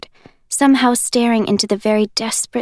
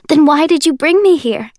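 higher, louder, voice cracking with fear; voice starting to break; 6 semitones higher, 6 dB louder than usual. Acted. Juliet demanding answers from Warner, voice breaking. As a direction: fight to keep the voice steady and fail. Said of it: "My voice is starting to break".

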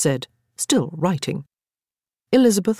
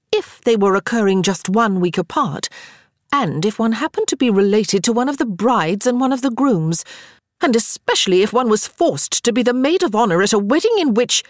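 darkly; 6 semitones higher than usual. A narrator's reading. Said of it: "Sarah replied darkly".

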